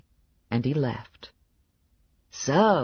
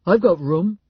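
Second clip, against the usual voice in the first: eager Clown; 5 semitones higher, 6 dB louder than usual. A narrator's reading. Narrator voices Albert Clown.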